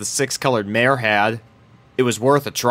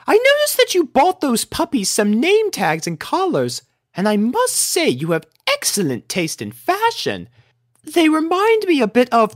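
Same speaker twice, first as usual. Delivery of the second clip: high, refined lady voice; a prim unicorn lady; Rarity voice; 14 semitones higher than usual. A narrator's reading. Elder unicorn speaking to Rainbow, high and refined.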